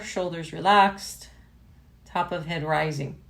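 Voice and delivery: measured meditation-teacher voice with pauses; guided meditation. Real, not acted. Yoga teacher settling a class into sitting tall, guided meditation. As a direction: guide them gently through posture, phrase by phrase.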